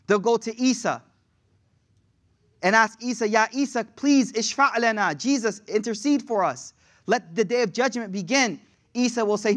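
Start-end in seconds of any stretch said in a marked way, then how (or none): 3.3-8.6 insistent, slightly raised appeal; pleading. Acted. The people begging Isa to intercede, pleading. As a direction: beg him to step in.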